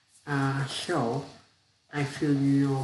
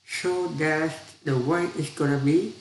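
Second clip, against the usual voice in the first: snapping husband; 2 semitones higher than usual. Acted. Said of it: "snapped the husband".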